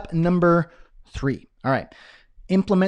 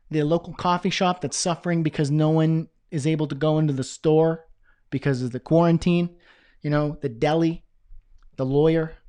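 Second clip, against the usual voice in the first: slipping into a Brooklyn accent; a loose, accidental Brooklyn accent; hint of Brooklyn accent on the vowels. Real, not acted. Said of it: "I don't know why I'm doing the Brooklyn accent".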